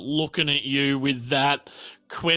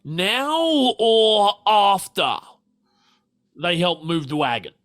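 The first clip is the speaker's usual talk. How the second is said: husband character voice; 6 semitones higher than usual. Acted. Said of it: "It's like".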